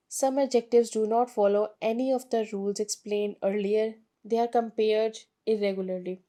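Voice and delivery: slow, careful textbook reading; reading the rule aloud. Shown as a demonstration. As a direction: read the rule out slowly for students. Reads rule from book slowly. (धीमी किताबी पढ़ाई)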